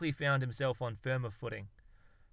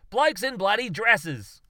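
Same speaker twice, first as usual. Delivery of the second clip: slow, high, loud disgusted Aussie bellow; exasperated scoff; 9 semitones higher, 11 dB louder, slower than usual. Acted. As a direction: drag it out in disgust. Darwin exasperated explanation.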